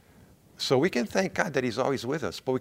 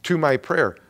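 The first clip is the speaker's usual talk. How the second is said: loud urgent call on Attend; louder, pressing plea to God; 3 semitones higher, 7 dB louder, slower than usual. Retold or imitated. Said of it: "And he says".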